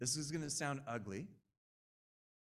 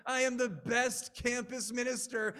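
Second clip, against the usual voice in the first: higher and louder, full self-acclaim; mock grandiose boast; 8 semitones higher, 7 dB louder than usual. Preacher exposing his ugly pride, loud mock boast. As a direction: proclaim your own greatness. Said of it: "I've had thoughts like".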